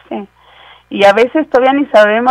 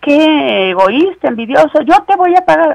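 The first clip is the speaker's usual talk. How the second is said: mock whine; 8 semitones higher, 5 dB louder than usual. Pastor imitates a debtor accusing the lender, mock whine. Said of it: "hemos escuchado muchos".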